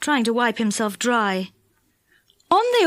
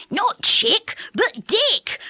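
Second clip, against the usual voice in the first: shouting correction; 9 semitones higher, much slower than usual. A narrator's reading. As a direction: shout to correct the deaf saucepan man. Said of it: "shouted Moonface".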